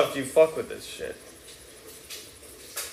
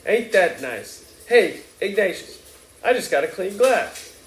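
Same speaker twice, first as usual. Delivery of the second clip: a hint of a tipsy New Orleans mother, slightly higher; lightly voiced Mrs Riley; 7 semitones higher, 3 dB louder than usual. A narrator's reading. Mother smoothing things over at the bar, lightly voiced. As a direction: lightly play the chatty mother.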